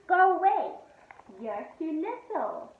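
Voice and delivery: loud, high brush-off; scowling. A narrator's reading. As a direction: push her away crossly. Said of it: "Felix scowled".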